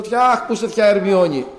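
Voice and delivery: mock-plaintive high call; retold calling out. Sufferer looks for his aunt when pain returns, retold calling out. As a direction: call out for a missing aunt, re-enacted. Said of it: "να φωνάζω".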